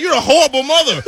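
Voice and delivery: loud, high, laughing insult; laughing shout. Retold or imitated. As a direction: hurl it at her while laughing. Yelling at heckler, laughing.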